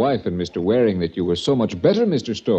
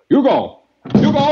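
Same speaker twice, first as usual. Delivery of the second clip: calling out; 6 dB louder than usual. Acted. Cordell calls his guard in.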